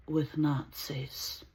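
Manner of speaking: whispered, slow and final. Retold or imitated. Jewish woman rebuffing the Nazi, whispered slowly. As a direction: drop to a cold whisper.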